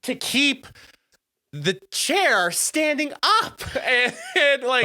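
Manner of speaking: slow and high, dissolving into laughter; cracking up mid-sentence; laughing. Real, not acted. Laughs at sinking chair.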